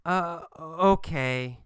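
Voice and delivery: slow, drawn-out uh okay; hesitant. Acted. Kathy answering Gabriel, hesitant and slow. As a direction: give in reluctantly.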